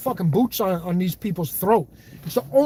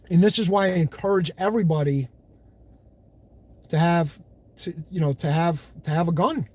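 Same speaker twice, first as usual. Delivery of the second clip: halting, with long gaps before "to have"; careful pausing; 3 semitones lower than usual. Real, not acted. Watching what he says on this platform, pausing carefully before "to have a gun". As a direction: pick the words warily, stalling and restarting on "to have". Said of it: "That's why I was pausing".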